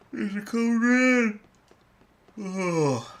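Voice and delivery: slow, high and loud cry; excited shout. Real, not acted. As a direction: shout it out like an alarm. Spotting a rare enemy.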